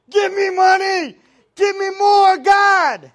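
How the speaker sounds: high, full-force shouted plea; imitated crowd screaming. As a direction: shout it like a worked-up congregation. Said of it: "they started screaming".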